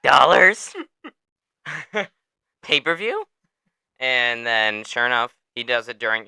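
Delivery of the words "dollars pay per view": high, loud, cash-hungry squeal; mock promoter drooling over dollars; greedy Dana White. Host imitating Dana cheering over pay-per-view, mock greedy squeal. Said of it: "Dana went".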